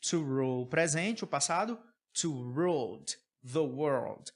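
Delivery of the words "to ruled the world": "ruled" devagar, numa só sílaba. Shown as a demonstration. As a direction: diga "To ruled the world" bem devagar, ruled sem sílaba nova. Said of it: "Ó a pronúncia, ruled". (ruled sem o E)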